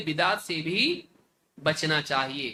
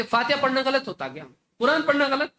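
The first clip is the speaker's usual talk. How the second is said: mock indignant question; 5 semitones higher than usual. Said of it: "کہتے".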